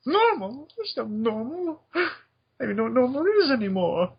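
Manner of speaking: high-pitched manic mad scientist; Doctor Insano. Acted. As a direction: shriek it like a madman. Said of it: "the Doctor Insano".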